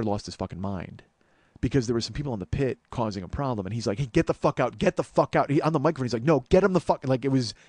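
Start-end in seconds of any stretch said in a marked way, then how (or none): 4.0-5.5 retold rage. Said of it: "real emotion and real rage". 6.2-7.1 retold rage. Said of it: "real emotion and real rage".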